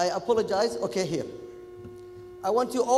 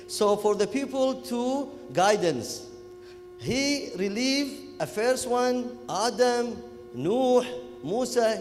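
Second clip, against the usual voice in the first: Kuwaiti English; 3 semitones higher, slower than usual. Retold or imitated. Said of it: "talking, uh, Kuwaiti English".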